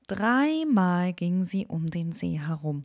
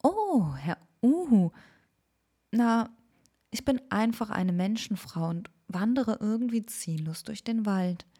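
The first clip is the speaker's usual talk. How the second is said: put-on higher, startled young woman's voice; girl caught off guard, explaining herself; higher girl voice, wandering and lost; 3 semitones higher than usual. Girl answers the owl.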